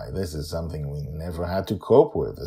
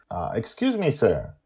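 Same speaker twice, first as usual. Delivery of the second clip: formal; 6 semitones higher, 3 dB louder than usual. A narrator's reading. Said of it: "a bit more formal than before".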